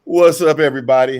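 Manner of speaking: big booming radio host hello; sexy radio voice. Pretend. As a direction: greet the listeners like a smooth late-night DJ. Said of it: "uh, sexy radio voice".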